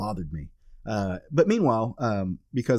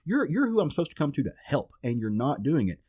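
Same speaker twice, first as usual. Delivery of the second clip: desperate father who can't calm down; frantic pleading; 4 semitones higher than usual. Retold or imitated. A father begging the cop about his missing son, frantic. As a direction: voice jumping high in panic, pushing harder on missing.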